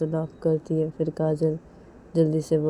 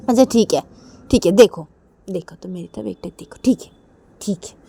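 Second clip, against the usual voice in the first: giving in; 3 semitones higher, 7 dB louder than usual. Acted. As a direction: let it fade into acceptance. Reshma giving in, fading.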